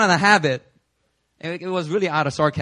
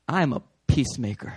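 calm declaration; 3 semitones lower than usual. Shown as a demonstration. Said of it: "I just need to say".

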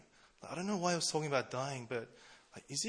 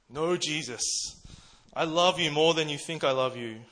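mild declaration; 3 semitones higher, 7 dB louder than usual. Retold or imitated. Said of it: "bold declaration of his unwavering loyalty".

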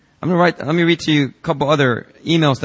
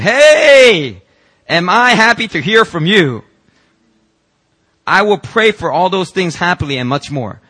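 much higher and louder, bursting with joy; joyful greeting; 5 semitones higher, 6 dB louder, slower than usual. Acted. Pastor reading Peter's happy reply to the congregation, overjoyed. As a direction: read it like a delighted young man.

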